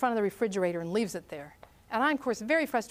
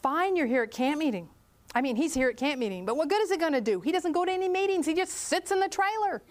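annoyed; 3 semitones higher than usual. Retold or imitated. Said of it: "with her arms crossed, tapping her foot".

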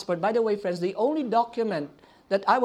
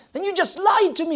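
higher, louder accusing yell; yelled accusation; 7 semitones higher, 5 dB louder than usual. Retold or imitated. Visa officer yelling at the missionary, loud accusing. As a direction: throw the accusation at him. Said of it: "He yelled at me".

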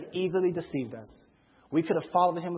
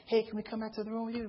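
put-on girls; 4 semitones higher, 8 dB quieter, faster than usual. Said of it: "sometimes girls will be like".

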